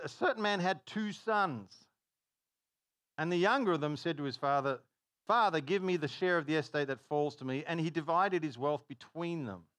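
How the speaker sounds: measured Bible reading; a light formal reading voice; scripture reading. Acted. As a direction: read the verse with weight. Reads scripture aloud.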